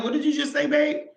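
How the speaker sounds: high, stunned question to her husband; shocked disbelief. Retold or imitated. To her husband after his confession, stunned high disbelief. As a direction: squeak it out in disbelief.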